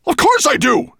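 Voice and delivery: high, loud dragon growl. Acted. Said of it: "growled Nettlebrand".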